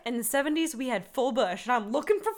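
hammed-up seventies boomer insisting. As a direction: demand it like a boomer who misses the seventies. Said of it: "someone being like".

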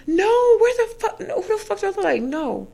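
high, loud outraged no; a hammed-up indignant brush-off; mock outraged refusal. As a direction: rear back, scandalized, refusing him. Retold refusal to coworker.

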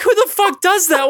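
high-pitched incredulous outrage; retold indignation. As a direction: demand it in mock disbelief. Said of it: "I was pissed".

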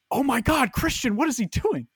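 high-pitched alarmed girlfriend imitation; Emily. Girlfriend calling out to Christian, high alarmed imitation. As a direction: pitch it way up, aghast. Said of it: "I just hear Emily go like".

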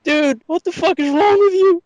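high mock-incredulous friend voice; scolding friend. His friends at the table scolding him, high and incredulous.

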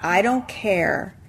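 slow, weighty pronouncement with pauses; mock defiant declaration. Friend reading out what the suit says, mock defiant. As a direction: spell it out deliberately, phrase by phrase.

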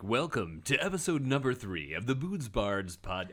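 booming radio announcer intro; over-the-top podcast announcer; super announcer voice. Shown as a demonstration. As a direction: sell it like a big show host. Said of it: "like, super announcer voice".

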